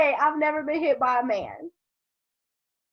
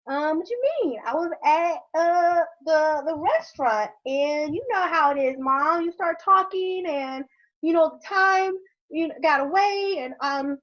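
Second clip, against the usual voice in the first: nervous excuse; 4 semitones higher, 4 dB louder than usual. Retold or imitated. Teen stammering excuse to mom.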